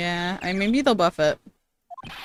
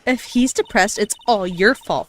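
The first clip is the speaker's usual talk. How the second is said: Gumshoe voice. Acted. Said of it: "Did you want me to do Gumshoe?".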